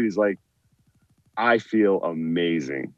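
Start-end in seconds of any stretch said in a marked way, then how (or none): 1.4-2.9 slow, softer imitation of a Southern buddy; blissed-out mock Southern delivery, unhurried; Southern accent. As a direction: stretch it out quietly, lightly Southern. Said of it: "this deep, you know, Southern accent".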